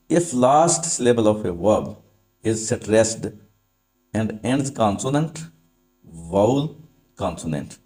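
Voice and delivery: very slow, word by word; slow dictation. Shown as a demonstration. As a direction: dictate the rule so students can write. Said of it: "dictating rule slowly". (धीमी आवाज़ में नियम लिखवाना)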